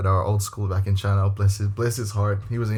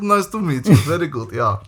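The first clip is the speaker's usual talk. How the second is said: mock phony teacher; 5 semitones higher, 5 dB louder than usual. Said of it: "It's like".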